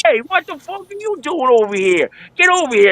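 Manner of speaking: imitating Gandolfini. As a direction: play the big mob boss hailing an old buddy across the bar. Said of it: "Gandolfini walks in and he goes".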